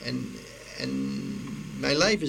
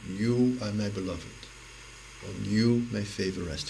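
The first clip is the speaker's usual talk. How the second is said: lower, measured assurance; gentle voice of God; 5 semitones lower than usual. Acted. Voice that prayer listens to, low and gentle. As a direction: say it low and gently, pausing midway. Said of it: "to the voice".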